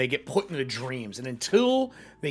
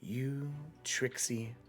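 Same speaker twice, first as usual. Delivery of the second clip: softer, creepy villain purr; sly villain; 4 dB quieter than usual. Acted. Villain taunts the trickster who faked Shantae's voice, soft creepy purr. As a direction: coo it like a mocking sly villain. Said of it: "and he goes".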